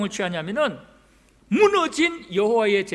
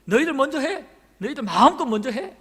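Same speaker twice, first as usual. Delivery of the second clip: mildly cocky challenge, a little raised; self-assured; 4 semitones higher, 3 dB louder than usual. Acted. Elijah letting the Baal prophets go first, mildly self-assured. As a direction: confidently invite rivals to go first. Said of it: "자신만만합니다".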